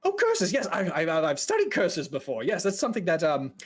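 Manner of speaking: lightly voiced eager, nervous mage; a hint of flustered eagerness; anxious fella. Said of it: "anxious fella kind of walks up to you".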